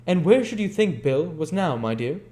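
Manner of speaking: put-on high, coaxing old man's voice; conciliatory. A narrator's reading. Old Fagin coaxing the girl to talk, conciliatory. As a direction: soften her up with sweetness. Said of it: "in his most conciliatory tone".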